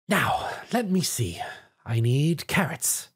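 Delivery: slow, hushed whisper while shopping; whispering to herself. Acted. Rarity whispers to herself as she shops at the market. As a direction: murmur it under your breath, unhurried.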